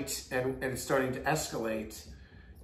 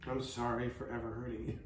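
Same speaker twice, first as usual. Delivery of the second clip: attempted sincere apology; 3 semitones lower, 9 dB quieter than usual. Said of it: "you have to be sincere".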